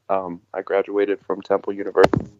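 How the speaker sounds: choppy, dropping out; bad connection, words cut; breaking up space radio. Real, not acted. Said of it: "Ronald, you're breaking up a little bit".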